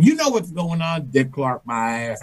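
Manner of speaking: a hint of quiet menace, trailing down; seething wife. Wife confronts husband after call, lightly voiced seething.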